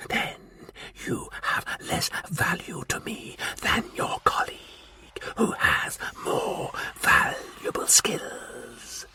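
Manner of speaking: slow, hissed, menacing whisper; whispering Martian warlord. Acted. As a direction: breathe the demand like a cold threat. Martian threat.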